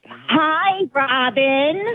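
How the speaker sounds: reluctant loud call. Pretend. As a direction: call out on request, half-hearted. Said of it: "and loudly say".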